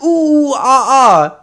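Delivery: high, loud mock monkey hoots; monkey noises. Mimicking a customer's monkey talk, high hoots. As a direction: hoot like a monkey. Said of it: "does the whole monkey talk".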